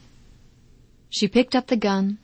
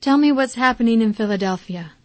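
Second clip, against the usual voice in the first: a little brighter, masking sorrow; mother hiding despair behind forced cheer; forced cheerfulness; 3 semitones higher, 4 dB louder than usual. Acted. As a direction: push some cheer into it. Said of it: "She forced a note of cheerfulness into her voice".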